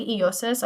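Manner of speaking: "eosis" said carefully as ee-OH-sis; Greek pronunciation. Shown as a demonstration. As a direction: sound out "eosis" the Greek way, each syllable clear. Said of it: "So it's pronounced".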